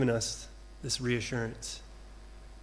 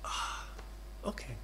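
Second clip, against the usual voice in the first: put-on child's relief; 2 semitones lower, 14 dB quieter than usual. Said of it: "they're just".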